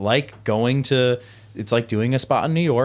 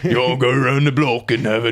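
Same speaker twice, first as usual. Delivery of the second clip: Dobby voice; 4 semitones higher, 6 dB louder than usual. Retold or imitated. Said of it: "It's like it's Dobby".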